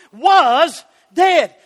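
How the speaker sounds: "Was" punched and held before "dead"; stress on Was. Real, not acted. Preacher repeating the key word to the church, stress on "Was". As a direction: lean on "Was", then set "dead" apart. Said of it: "We found the correct word in grammar".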